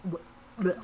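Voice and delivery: two quiet grossed-out blehs; disgusted blehs. Real, not acted. Reader grossed out by the Rat King, disgusted. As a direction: make a small double noise of disgust. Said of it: "I get more disgusted".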